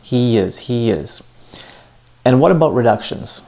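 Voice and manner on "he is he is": "he is" joined by a Y glide, he-yiz; Y-sound linking. Shown as a demonstration. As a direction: slip a small Y between "he" and "is". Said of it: "it's a Y sound".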